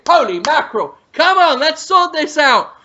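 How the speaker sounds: hammed-up exasperated chef tirade; mock chef rant. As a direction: berate the kitchen in mock outrage. Acting out Gordon Ramsay kitchen rant.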